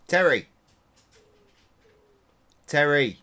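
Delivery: loud high call of a name; calling the dog. Real, not acted. Owner calling the dog Terry, loud and high. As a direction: shout for the dog to come.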